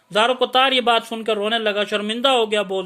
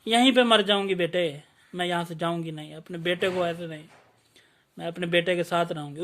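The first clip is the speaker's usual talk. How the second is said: put-on tearful old mother; 3 semitones lower than usual. Old mother refusing to leave.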